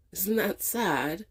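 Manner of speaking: rueful laugh then question; amused, self-aware. Real, not acted. Laughing at herself.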